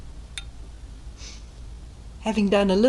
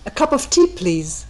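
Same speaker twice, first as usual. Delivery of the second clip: calling out; 5 dB louder than usual. Retold or imitated. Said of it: "Going in, I call".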